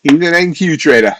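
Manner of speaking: a quick put-on Boston accent. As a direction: say it like a Boston local. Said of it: "No idea why I said that with a Boston accent".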